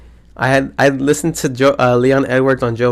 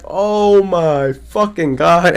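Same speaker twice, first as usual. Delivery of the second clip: slow awestruck; 4 semitones higher, much slower than usual. Retold or imitated. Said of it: "It was just like".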